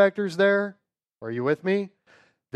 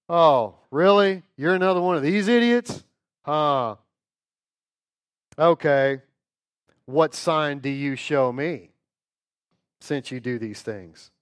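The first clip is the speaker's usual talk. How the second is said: sneering priest. Acted. Priest mocking Jesus voiced.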